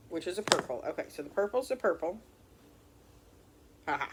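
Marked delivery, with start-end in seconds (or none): 3.9-4.1 short embarrassed laugh; nervous laugh. Real, not acted. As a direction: laugh it off awkwardly. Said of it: "Sorry about that, y'all".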